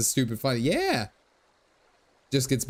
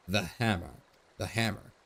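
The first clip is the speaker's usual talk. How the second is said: muttering; 4 semitones lower, 6 dB quieter than usual. Acted. Thief muttering the words.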